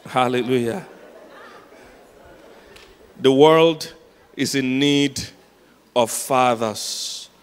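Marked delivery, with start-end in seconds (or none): 3.2-7.3 THE WORLD, IS IN NEED, OF FATHERS in separate weighted chunks; slow, deliberate preacher's emphasis on "fathers"; emphatic. Real, not acted. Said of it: "I don't know how to emphasize this".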